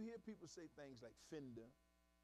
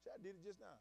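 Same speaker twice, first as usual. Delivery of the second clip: normal talking voice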